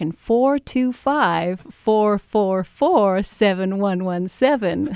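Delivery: speaking in American. Guest repeating a phone number, now in an american accent. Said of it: "now I'll say it in American".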